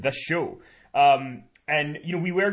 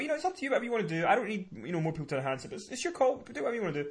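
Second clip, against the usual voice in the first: imitating Paul; 4 semitones higher, 8 dB quieter, faster than usual. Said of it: "Paul had been kinda like".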